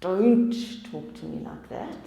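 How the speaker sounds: snappish mock retort; fight mode. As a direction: push back as if under attack, hammed up. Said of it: "I'm in fight mode".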